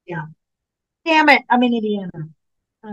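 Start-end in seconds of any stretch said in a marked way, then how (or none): 1.0-2.1 exasperated. Real, not acted. Realizing she's away that day.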